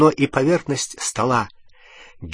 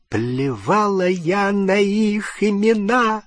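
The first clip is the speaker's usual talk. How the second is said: high, slow, close to hysterics; hint of hysteria; 9 semitones higher, much slower than usual. A narrator's reading. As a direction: near tears, barely holding on. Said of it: "с ноткой истерики в голосе".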